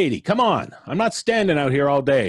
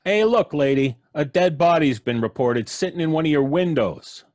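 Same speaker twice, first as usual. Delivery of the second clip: bossy cop; 2 semitones higher than usual. Acted. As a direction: lean on her through the door. Cop barking at old lady.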